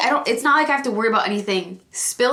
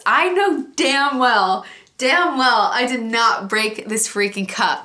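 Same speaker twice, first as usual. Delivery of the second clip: slow indignant emphasis; emphatic indignation; slower than usual. Real, not acted. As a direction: insist it hard, fed up. Ranting about broken cup.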